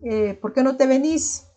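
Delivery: friendly Salvadoran voseo invitation; casual voseo quote. Shown as a demonstration. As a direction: say it like a friend inviting you over. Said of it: "Utilizamos más el voceo".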